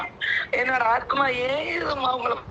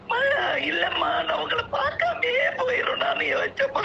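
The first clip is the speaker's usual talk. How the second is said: breaking down mid-sentence; sobbing confession; tearful, broken phrases; crying; 6 semitones higher than usual. Real, not acted. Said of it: "அழாதீங்கம்மா".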